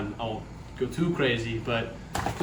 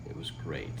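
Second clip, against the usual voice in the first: sarcastic; 5 semitones lower, 12 dB quieter than usual. Real, not acted. Sarcasm after hours of meetings.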